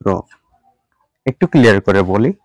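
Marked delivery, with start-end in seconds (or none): 0.1-0.1 American letter R, "র" with r sounded; American-style voiced r. Shown as a demonstration. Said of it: "American অ্যাকসেন্টে বলবো".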